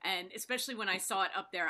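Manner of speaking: ordinary talk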